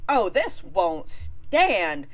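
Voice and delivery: scheming Aphrodite. Retold or imitated. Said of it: "And she's like".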